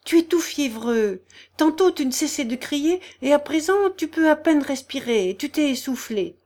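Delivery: high-pitched anxious fussing; increasingly frightened. A narrator's reading. General's wife fretting over his fever, frightened. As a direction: worry aloud over his state. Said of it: "de plus en plus effrayée".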